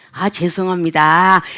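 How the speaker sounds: low, drawn-out, measured sorry; slow, deliberate apology. Acted. Customer service apology to a complaining caller, slow and deliberate. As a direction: apologize slowly, one careful word at a time. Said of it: "또박또박 또 이렇게 할 때가 있어요".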